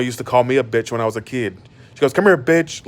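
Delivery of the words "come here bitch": mama yelling. Retold or imitated. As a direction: imitate mom snapping at her kid. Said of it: "like, when she get mad".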